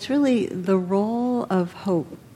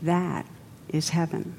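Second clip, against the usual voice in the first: softly; 7 dB quieter than usual. A narrator's reading. Monk to the kneeling samurai, soft and tender. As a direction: breathe it out softly, like a blessing. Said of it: "The monk says softly".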